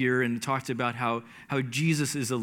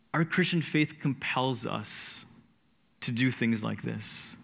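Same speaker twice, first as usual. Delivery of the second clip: slow, measured, composed statement; regained composure; slower than usual. Retold or imitated. Retelling the answer to the interpreter, slow and composed. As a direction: say it slowly, having collected yourself. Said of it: "once I found my composure".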